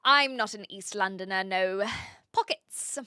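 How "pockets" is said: "Pockets" said high and drawn out, in her own accent; saying pockets. Shown as a demonstration. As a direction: show how you say "Pockets", pitched well up. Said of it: "that is how I say pockets".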